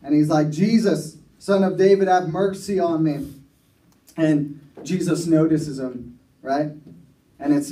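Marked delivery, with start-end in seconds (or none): 0.5-3.3 calling out a bit louder, still restrained; a beggar pushing his plea harder; louder retold shout. Blind beggar calling louder to Jesus, mild shout. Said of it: "started to shout louder".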